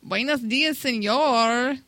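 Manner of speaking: drawn-out, badly faked Mexican accent. Shown as a demonstration. Contestant attempting it on the host's dare, Mexican accent. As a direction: stretch the words in an amateur Mexican accent. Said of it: "Do a Mexican accent".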